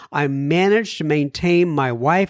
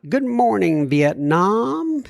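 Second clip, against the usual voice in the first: Good Morning Vietnam; 4 semitones higher, slower than usual. Retold or imitated. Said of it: "Sounds a little bit like".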